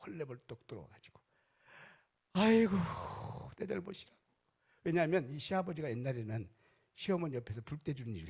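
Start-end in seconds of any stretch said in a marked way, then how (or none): 2.3-4.2 high, loud mock wail; wailing lament. Father-in-law rushing in to take the blame, wailing. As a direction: cry out the blame as you rush in.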